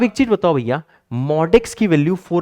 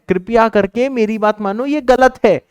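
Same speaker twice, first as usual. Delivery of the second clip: shouting insistently; 6 semitones higher, 4 dB louder than usual. Real, not acted. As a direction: hammer home that it's wrong. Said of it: "मैं चिल्ला के बोल रहा हूं". (चिल्ला के ज़ोर से बोलना)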